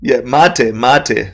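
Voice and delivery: mate said as MAH-teh, two syllables; correct pronunciation. Shown as a demonstration. Guest correcting the host's word, mate as MAH-teh. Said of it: "mate, not the matcha tea".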